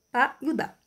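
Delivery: "pá" and "dá" as short little beats; brief syllables. Shown as a demonstration. Teacher isolating weak syllables, "pá" and "dá" kept short. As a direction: drop in "pá" and "dá" briefly. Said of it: "bem breve".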